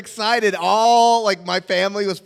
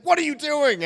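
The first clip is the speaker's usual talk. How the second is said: high-pitched mock exasperation; exasperated demand; 10 semitones higher than usual. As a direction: imitate a man at his wits' end. Acted exasperated casting man.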